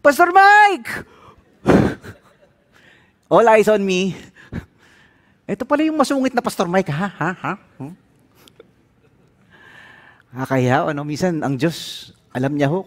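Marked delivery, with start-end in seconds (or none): 0.0-1.0 high, loud call across the restaurant; shout across room. Retold or imitated. 5.5-8.0 teasing accusation. Retold or imitated.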